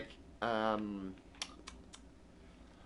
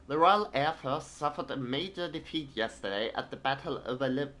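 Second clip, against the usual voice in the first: put-on a shaky try at a British newsreader accent; British accent attempt; 4 semitones higher than usual. Streamer reads a British newspaper in a British accent. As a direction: put on a British news accent, not quite landing it. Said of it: "I can't do British accent".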